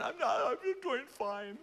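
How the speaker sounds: high strained I'm doing fine; choked-up fake fine. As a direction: pretend to be fine, barely holding. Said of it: "It's just like".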